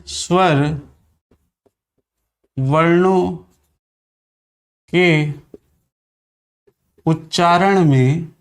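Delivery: स्वर, वर्णों, के, उच्चारण में spoken one at a time with long gaps; teacher dictating word by word; slow dictation. Shown as a demonstration. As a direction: dictate it so students can write.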